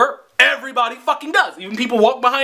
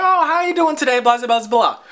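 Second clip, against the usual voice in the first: higher, sing-song customer-service hello; imitated friendly greeting; 3 semitones higher than usual. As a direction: mimic a cashier being nice. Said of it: "she was also nice to".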